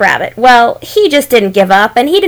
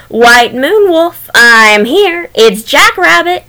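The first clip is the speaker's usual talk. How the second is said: proud and happy; 5 semitones higher, 3 dB louder, slower than usual. Acted. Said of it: "as proud and happy as could be".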